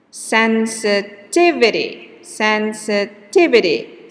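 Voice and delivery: sensitivity with the TIV syllable stressed. Shown as a demonstration. Teacher to class, stress demo of sensitivity. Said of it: "the primary stress is in T".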